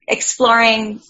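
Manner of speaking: normal talking voice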